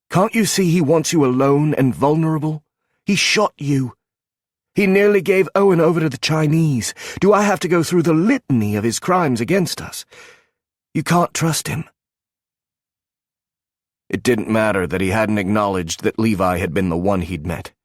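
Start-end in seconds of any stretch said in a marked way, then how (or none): 0.1-11.9 desperate pleading. Acted. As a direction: make him see the danger, pushing harder each line. She pleads, rising to a near shout.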